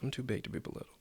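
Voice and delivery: whispered "I'm too big to be belittled."; to yourself. Shown as a demonstration. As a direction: say it under your breath to yourself. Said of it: "say it to yourself".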